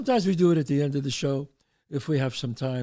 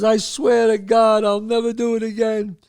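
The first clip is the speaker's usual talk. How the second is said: exasperated oath; 5 semitones higher, 6 dB louder than usual. Retold or imitated. Timmy swears on crucifix to parents, loud exasperated vow. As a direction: give in and swear loudly.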